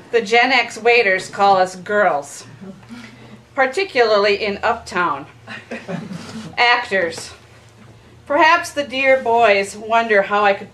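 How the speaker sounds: measured recital with dry punchlines; comic poetry reading. Acted. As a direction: read it out, pausing for each laugh. Poet reads comic poem to friends.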